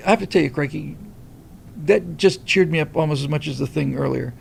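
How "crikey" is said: put-on crikey softer in a mild Australian accent; a light Australian crikey. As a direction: murmur crikey like an Aussie. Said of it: "when an Australian says crikey".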